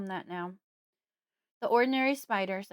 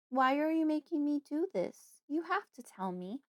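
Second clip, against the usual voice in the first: higher-pitched, upset plea; tearful pleading; 7 semitones higher than usual. A narrator's reading. Daughter begging Fred for an answer, near tears. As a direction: plead as if starting to cry. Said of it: "I'm starting to cry now".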